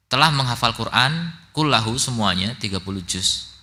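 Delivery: loud, measured classroom reading with translation; reading a text aloud. Real, not acted. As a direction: read out the book firmly, phrase by phrase.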